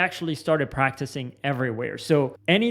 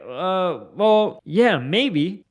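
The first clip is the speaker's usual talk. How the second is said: hesitant concession; 3 semitones higher, much slower than usual. Acted. Imagined client hesitantly conceding the point.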